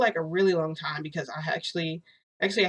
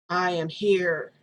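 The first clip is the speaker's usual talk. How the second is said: slow eerie line; 4 dB louder, much slower than usual. Retold or imitated. Infected friend speaks, slow.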